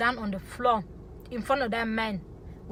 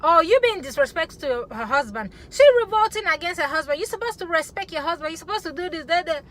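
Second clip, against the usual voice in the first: lightly mimicked scolding, raised in pitch; imitated critics; 4 semitones higher than usual. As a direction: rattle off the critics' reproach. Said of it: "they're gonna be like".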